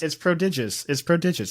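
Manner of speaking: "prodigious" as pro-DIJ-us, stress on DIJ; correct pronunciation. Shown as a demonstration. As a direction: firmly correct them: "prodigious" is pro-DIJ-us, falling at the end. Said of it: "That's how it's pronounced".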